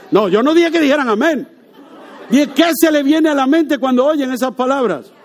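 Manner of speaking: talking through real laughter; amused, can't hold the laugh in; preacher laughing as the crowd says amen. Real, not acted. Congregation shouts amen, preacher laughs.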